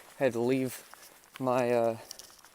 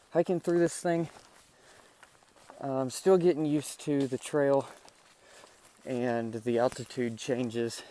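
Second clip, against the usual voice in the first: out of breath. Real, not acted. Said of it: "sorry if I'm breathing heavy on this".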